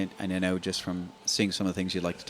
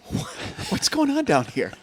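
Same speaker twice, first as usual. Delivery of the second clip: much higher and louder, shrill mock-wife voice; 7 dB louder than usual. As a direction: ham up the wife's shocked outburst. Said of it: "She goes".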